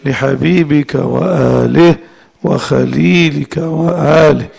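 slow, measured prayer with pauses; devotional recitation. Acted. Teacher closing the blessings before class, devotional recitation. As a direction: draw out each phrase ending. Closes the group's blessing formula.

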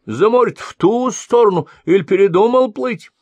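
very high, mock-innocent old woman puzzlement; surprised asking. A narrator's reading. Old woman asks the fleeing sorcerer, mock surprise. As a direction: feign wide-eyed surprise. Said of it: "удивлённо вопрошала".

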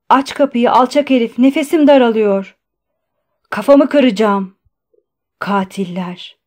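strained, loud cries dropping off at the end; hoarse shouting. A narrator's reading. Patient leaning on the door at the guard, hoarse shouting. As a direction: shout with a strained throat, sinking on the last word. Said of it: "kısık sesle bağırdı".

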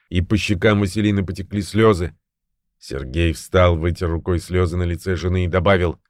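ordinary delivery, nothing marked

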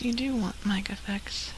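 soft whisper. Real, not acted. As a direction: whisper it as an aside. Whispered aside.

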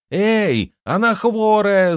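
very high, loud alarmed shriek; panicked squeal. A narrator's reading. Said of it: "завизжала она".

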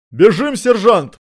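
frightened cry. A narrator's reading. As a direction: cry out in terror. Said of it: "закричал перепуганный патрульный". (испуганный крик, выше и громче)

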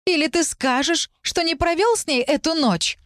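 staged public scene of jealous fury; jealous shout. Acted. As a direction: shriek the name, then the charge. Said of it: "закричал Арк".

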